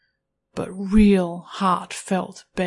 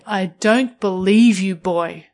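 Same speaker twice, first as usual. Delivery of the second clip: scornful, insistent demand; cold, commanding disbelief; demanding dismissal; 4 dB louder than usual. Acted. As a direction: reject the begging and demand more. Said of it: "I say".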